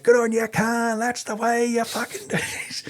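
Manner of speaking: high, whooping mock cheer; calling out. Dog handler cheering Khan for biting, high-pitched calling out. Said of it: "he's calling out".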